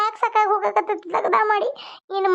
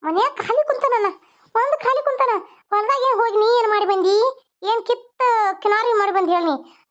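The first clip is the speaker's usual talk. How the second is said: mocking rebuke; 4 semitones higher than usual. Wife berates idle husband.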